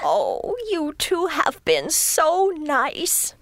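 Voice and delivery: slow, teary thanks; grateful and choked up; touched to tears. Acted. Rabbit thanks Pole and Vole through happy tears.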